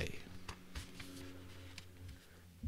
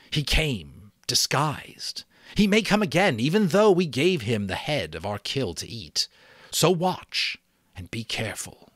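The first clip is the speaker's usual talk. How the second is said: higher, louder rising warning; warning chief; 6 semitones higher, 5 dB louder than usual. Acted. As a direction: build the threat of the beast. Chief warns of the beast.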